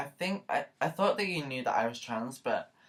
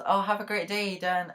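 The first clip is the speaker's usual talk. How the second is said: higher, louder imitation of a Scottish barista; Scottish accent; 8 semitones higher, 4 dB louder than usual. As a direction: lightly mimic a cheery Scottish accent. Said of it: "had a Scottish accent".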